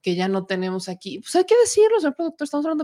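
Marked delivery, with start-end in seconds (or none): 1.2-2.8 high, loud mock declaration; exclaiming. Host playfully addressing the show's producer, loud mock exclaim. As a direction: burst out with it like a grand announcement.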